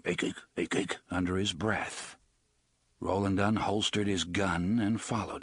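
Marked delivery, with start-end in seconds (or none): 0.0-1.0 muttering. Acted. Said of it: "Roland could hear him muttering".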